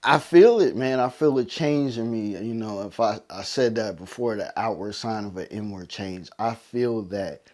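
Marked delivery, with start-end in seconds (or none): 0.0-2.4 higher, louder burst of real feeling; tears of joy spilling into a cry; emotional outburst. Real, not acted. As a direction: let the feeling break out, overwhelmed. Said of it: "And I just got so emotional".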